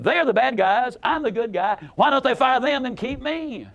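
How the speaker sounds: lightly mocking her self-righteous tone. Speaker voicing what her tone implied, mock self-righteous. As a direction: play her as the innocent victim. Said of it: "The inflection in her voice clearly said".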